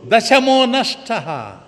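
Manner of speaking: high, slow, wailing cry. Acted. Leader sobbing to the boys that one is lost. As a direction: wail it out, loud and slow, in tears. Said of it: "బోరున ఏడుస్తూ".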